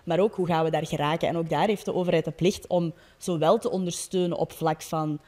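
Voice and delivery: ordinary talk, nothing marked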